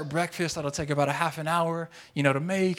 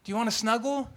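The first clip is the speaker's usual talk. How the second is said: higher, gently rising sweet invitation; sweet, nice; 6 semitones higher than usual. Retold or imitated. Wife coaxing her husband back to bed, sweetly. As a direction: imitate a wife asking sweetly. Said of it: "super nice and she's sweet".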